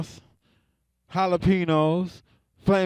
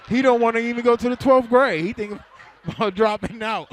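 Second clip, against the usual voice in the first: higher and louder, laughing through it; 5 semitones higher, 3 dB louder than usual. Acted. Comic telling the crowd, laughing at his own joke. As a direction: crack up at the joke.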